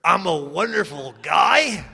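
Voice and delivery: slow shouted "wonderful guy"; a mock-earnest shouted affirmation; forced affirmation shout. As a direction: yell "I'm a wonderful guy" at the mirror, drawn out. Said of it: "I'm standing in front of the mirror".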